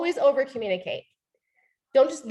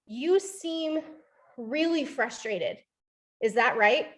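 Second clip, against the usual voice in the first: gentle; slower than usual. Shown as a demonstration. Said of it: "calling it by name".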